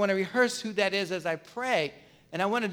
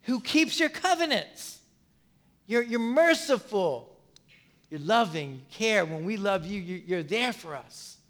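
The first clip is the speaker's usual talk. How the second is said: worshipful; 4 dB quieter than usual. Shown as a demonstration. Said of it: "He starts out very worshipfully".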